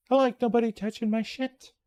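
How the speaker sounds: said nicely. Retold or imitated. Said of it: "And I said it nicely".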